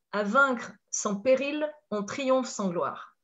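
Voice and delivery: slow, weighty recital of a classic line; slow recited quote. Retold or imitated. Quoting Corneille's Le Cid to her audience, slow recital. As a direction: savour each word like reciting theatre. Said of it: "Il y a une phrase de Corneille".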